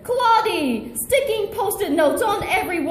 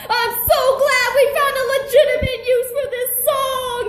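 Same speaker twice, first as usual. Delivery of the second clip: fast chirpy; 7 semitones higher, faster than usual. Acted. Billy rushing his line.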